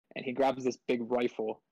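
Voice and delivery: ordinary talk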